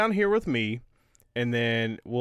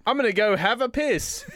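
put-on higher-pitched joke Australian accent; mock Australian accent; 7 semitones higher than usual. Mock Australian after accent talk.

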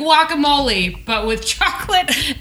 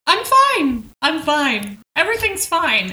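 Claire insisting; 4 semitones higher, slower than usual. Retold or imitated. Claire voiced in recap.

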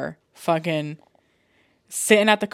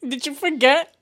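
laughing; 7 semitones higher, 8 dB louder than usual. Real, not acted. Teasing Jose, laughing.

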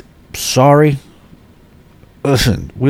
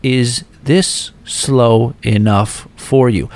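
sarcastic; much slower than usual. Retold or imitated. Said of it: "And then she goes".

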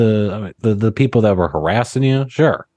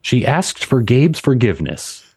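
over-enunciated "She asked for Gabe's forgiveness"; tongue-twister practice on "Gabe's forgiveness"; vocal warm-up; 3 semitones higher than usual. Shown as a demonstration. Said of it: "It's a vocal warm up".

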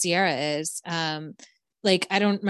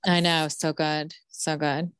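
ordinary talk, nothing marked

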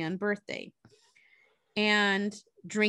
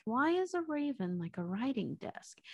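softer, to herself; a hint of musing Alice; quiet pondering; 2 semitones higher, 6 dB quieter than usual. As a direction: murmur it while thinking. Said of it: "says quietly to herself".

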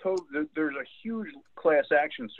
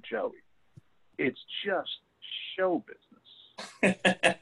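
high, very slow, drawn-out "show business"; emphatic older woman; 9 semitones higher, much slower than usual. Retold or imitated. Older woman emphatically telling Joey it's just show business, slow and high. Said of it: "grabbed him really emphatically and said".

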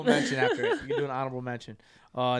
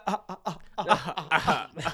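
staccato mock villain cackle; villain laugh. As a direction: imitate a cartoon villain's laugh. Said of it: "like a villain laugh".

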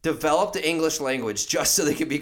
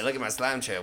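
cartoon slug; 4 semitones lower, 5 dB quieter than usual. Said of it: "like, a really cool slug".

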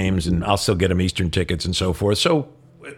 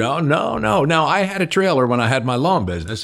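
put-on higher country-boy voice, insisting; country accent; 5 semitones higher than usual. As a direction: imitate the neighbor's country accent as he recalls. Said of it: "I will do his accent".

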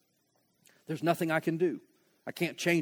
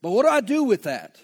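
frustrated protest; 4 semitones higher, 6 dB louder than usual. Pretend. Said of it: "It says".

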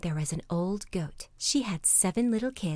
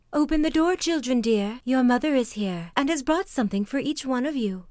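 higher-pitched wolf lightly imitating mother; wolf's softened voice; 5 semitones higher, 4 dB louder than usual. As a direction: coax sweetly as a wolf posing as mother. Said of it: "making his voice soft".

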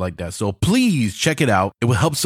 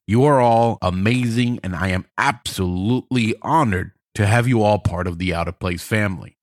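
big hall echo; echoey room sound; reverb. Real, not acted. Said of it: "I'm sorry for all the reverb".

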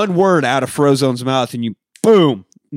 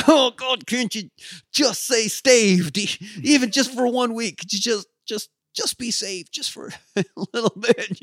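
high exasperated nagging partner voice; mock whiny complaint; 8 semitones higher, 3 dB quieter than usual. A superhero mocking a nagging partner with a high whine. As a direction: whine it up high, fed up with the world ending.

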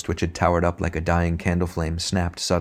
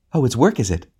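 snapped; 6 semitones higher than usual. Acted. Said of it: "snapped the ghost".

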